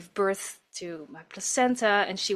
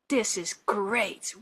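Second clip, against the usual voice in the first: whisper; slower than usual. Retold or imitated. Midwife encouraging quietly.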